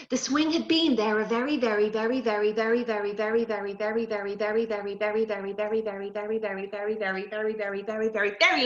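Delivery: playful long list of verys. A narrator's reading. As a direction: stretch the verys out for the little ones. Repeated very for effect.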